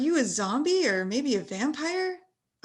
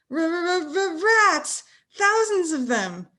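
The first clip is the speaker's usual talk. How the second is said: stammering, louder panicked cry; 2 semitones higher, 3 dB louder, much slower than usual. Acted. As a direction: sputter in terror at the rats. Boy panics at the rats.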